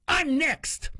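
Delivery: firm. Retold or imitated. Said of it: "I was firm".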